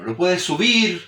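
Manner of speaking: slow, voice lifting on "subir". Shown as a demonstration. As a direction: lift the pitch on "subir" to illustrate it. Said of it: "Tú puedes variar el tono".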